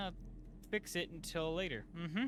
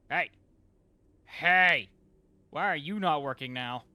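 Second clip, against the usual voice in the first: loud scolding of the machine; indignant shout; 11 dB louder than usual. Real, not acted. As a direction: yell at the gadget that quit. Machine stops working.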